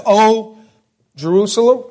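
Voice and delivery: Jerusalem asked with a high rising tune; lamenting call that rises. Shown as a demonstration. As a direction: lift Jerusalem up like a question.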